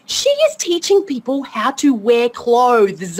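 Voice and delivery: slow, drawn-out mock disbelief; incredulous, slowly stretched; retold amazement. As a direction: spell out your astonishment word by word. Retold amazement at online hero.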